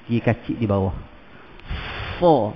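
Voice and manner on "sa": heavy "Sa" rounded toward "so"; tongue up at the back for "Sa"; raised SA. Shown as a demonstration.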